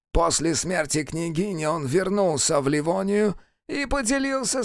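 high-pitched, strained envoy voice; accusing envoy. A narrator's reading. Envoy exposes the wife to the prince, accusing. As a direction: lay out the accusation high and deliberately.

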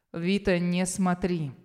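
низко, медленно, властно; спокойно приказать; властный приказ. Acted. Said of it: "Снова этот голос Кая Райдеса". (медленно и властно)

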